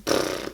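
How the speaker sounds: lip-buzzed splutter; blown raspberry noise. Shown as a demonstration. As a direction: imitate rambling with a lip noise. Imitated noise for rambling all over.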